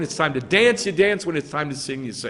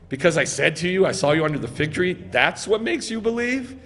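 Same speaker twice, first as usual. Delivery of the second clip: mocking; 2 semitones higher than usual. Preacher voicing Yeshua questioning Nathanael's belief, mocking. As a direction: tease him for believing so easily. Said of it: "He's mocking him".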